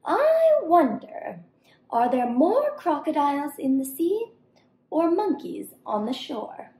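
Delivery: lightly voiced monkey calling from tree. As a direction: call out slyly from the treetop. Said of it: "she climbed atop her tree and cried".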